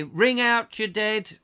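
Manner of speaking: high, slow street cry, ringing out; sing-song washerwoman cry, high and drawn out; washerwoman's call. Retold or imitated. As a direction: call it out like an old washerwoman doing her rounds. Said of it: "she would say".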